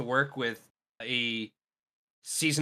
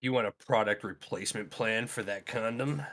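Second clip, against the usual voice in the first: pushy clerk upsell; 5 semitones lower, 7 dB quieter than usual. Pretend. Clerk upselling condom joke.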